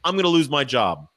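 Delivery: lightly acted fretting, high then dropping at the end; freaking out. Stage manager fearing for his job, mock freaking out. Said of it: "the stage manager's freaking out".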